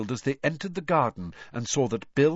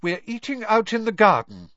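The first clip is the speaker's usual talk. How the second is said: higher, louder, irritated announcement; cross, raised-pitch household order; bad-tempered; 11 semitones higher, 6 dB louder than usual. A narrator's reading. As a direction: sound put out and cross. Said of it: "looking extremely bad-tempered".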